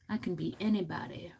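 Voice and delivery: breathy whispered boast. Acted. To viewers, confiding a playful secret in a whisper.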